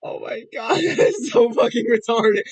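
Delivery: words pushed through laughter; laughing hard. Real, not acted. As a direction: crack up while saying it.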